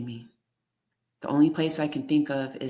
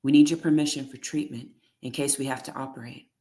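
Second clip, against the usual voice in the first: louder, insistent; 5 dB louder than usual. Acted. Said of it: "Her voice is getting louder".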